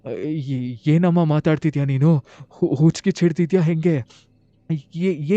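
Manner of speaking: scared and stumbling over words; ಗಾಬರಿಯ ತೊದಲು; panicked. Retold or imitated. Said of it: "ಎಷ್ಟು ಗಾಬರಿ ಆಗ್ತೀನಿ".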